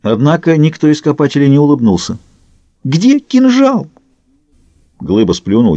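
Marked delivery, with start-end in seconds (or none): 2.8-3.9 much higher and slower, a hysterical cry. Acted. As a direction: demand it in frantic panic, stretching the words. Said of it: "Прекрати истерику".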